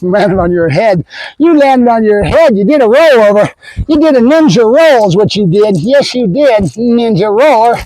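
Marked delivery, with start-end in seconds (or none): 1.4-7.8 teasing talk to a puppy; playful pet-owner praise; playful doting. Real, not acted. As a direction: fuss over the dog, drawing words out at the end.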